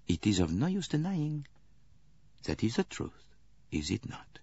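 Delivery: gentler tone. Acted. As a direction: ease her into admitting it. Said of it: "said in a gentler tone".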